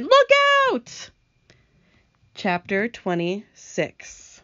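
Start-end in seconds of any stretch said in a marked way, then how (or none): 0.0-1.1 drawn-out warning cry; cried warning. Acted. Centipede warns again mid-fall, cried warning. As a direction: call the warning with a break between words. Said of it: "Centipede cried".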